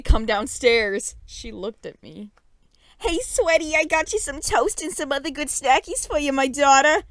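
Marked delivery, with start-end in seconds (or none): 3.0-7.0 higher, sugary mom voice; sweet mom voice. A narrator's reading. Mom greeting daughter with snacks, sugary high voice. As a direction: dote like an overly sweet mom.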